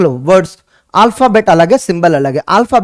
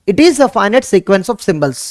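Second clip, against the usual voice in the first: slow dictation; 3 semitones lower, much slower than usual. Shown as a demonstration. Teacher to students, dictating slowly. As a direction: dictate the definition for notes.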